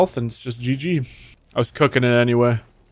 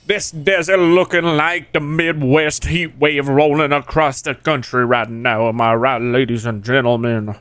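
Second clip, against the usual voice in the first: mock southern accent. Streamer jokes about the desert heat to viewers, in a mock southern accent. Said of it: "It's like a southern".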